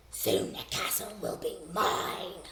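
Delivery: slow, sly villain voice; slow sly villain line; scheming villain. Shown as a demonstration. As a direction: plot it slowly like a schemer. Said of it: "say it in a voice to match who's talking".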